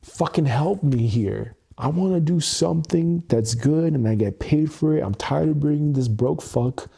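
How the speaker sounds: a touch of desperate pleading to God; mimicking upset plea. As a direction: friend quoting a man begging God for help in his car, mildly pleading. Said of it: "he was like, so upset".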